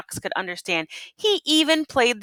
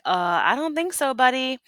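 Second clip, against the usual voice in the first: mice voice; 6 semitones higher than usual. Acted. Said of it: "The mice are like".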